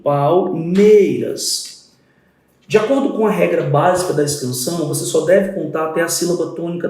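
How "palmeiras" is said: palmeiras drawn out very slowly, syllable by syllable; slow syllable count. Shown as a demonstration. Teacher scanning the verse for students, slow syllable count. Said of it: "Eu vou fazer a escansão".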